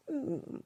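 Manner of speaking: high, thin dog's whimper; imitated whimper. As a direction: whimper like a scared puppy. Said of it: "like she's whimpering".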